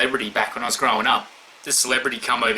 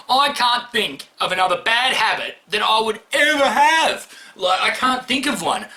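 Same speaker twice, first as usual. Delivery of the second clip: exasperated shout; 9 semitones higher than usual. Real, not acted. Exasperated over bad habits.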